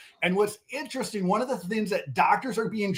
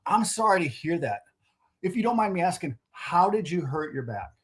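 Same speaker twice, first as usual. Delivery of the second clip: softer, unhurried, with a pause before the question; calm caring reply; 4 dB quieter than usual. Shown as a demonstration. Salesman to customer with a hurt back, gentle unhurried sympathy. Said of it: "pause and say".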